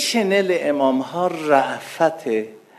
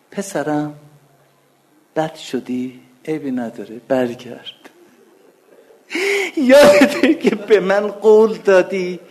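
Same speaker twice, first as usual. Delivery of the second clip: tender fatherly plea, voice rising; like a loving father calling a lost son home; voicing the Imam; 3 semitones higher than usual.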